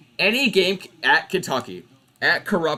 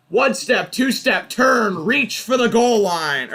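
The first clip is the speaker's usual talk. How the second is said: sarcastic sing-song, pitched high and spelled out step by step; mock the ref's call beat by beat; high, scornful retelling of the play; mocking replay; 7 semitones higher, slower than usual.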